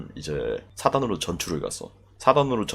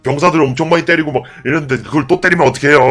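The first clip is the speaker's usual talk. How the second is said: pleading policeman; 6 semitones higher, 7 dB louder than usual. Retold or imitated. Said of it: "막 이러면서 막 경찰들이 막 말려".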